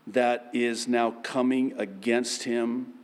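ordinary delivery

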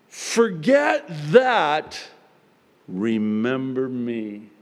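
slow, drawn-out words of Jesus; gentle voice of Jesus. Acted. Preacher voicing Jesus to the congregation, slow and gentle. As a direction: stretch each word out like a loving Savior. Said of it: "Jesus voiced, slow".

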